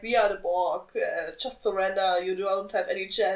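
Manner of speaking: flat robotic drone with no melody; monotone Borg voice. Retold or imitated. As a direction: drone it like an emotionless cyborg. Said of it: "And it's very monotone voice".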